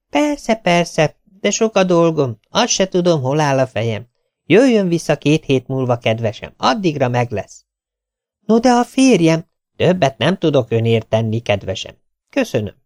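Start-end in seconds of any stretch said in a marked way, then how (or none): 0.1-7.7 lightly voiced tailor, higher, brushing her off; evasive tailor. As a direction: fob her off sweetly.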